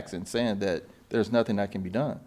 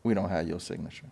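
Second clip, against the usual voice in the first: lower, softer mock apology; sheepish apology; 6 semitones lower, 8 dB quieter than usual. The agent apologising to him over the missing signature, meek and soft. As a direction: play her backing down meekly.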